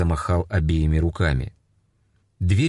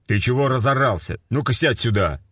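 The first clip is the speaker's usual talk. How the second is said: gruff sergeant; 6 semitones higher than usual. A narrator's reading. Sergeant scolds shouting man.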